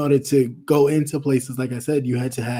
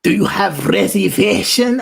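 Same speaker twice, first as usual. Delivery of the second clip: a hint of a gruff bouncer asking; bouncer's challenge; 5 semitones higher, 4 dB louder than usual. Friend retells the bouncer stopping them at the door, lightly voiced. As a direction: mimic the bouncer's sharp question. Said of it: "the dude jumped up like".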